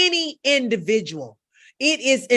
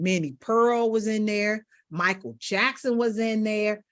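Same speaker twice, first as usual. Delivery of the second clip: normal talking voice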